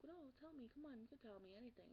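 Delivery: put-on coaxing older sister. Sister coaxing her to talk.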